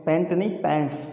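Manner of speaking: पैंट without an s, then पैंट्स with a crisp s; wrong then right form. Shown as a demonstration. Teacher correcting the pupils' पैंट to पैंट्स. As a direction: set पैंट against पैंट्स, ending on the s. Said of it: "हम use करते हैं बेटा पैंट".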